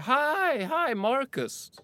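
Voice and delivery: a high, drawn-out call across the room; high hailing call from afar. Retold or imitated. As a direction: call out to him from a distance. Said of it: "en tjej som ropar lite på håll".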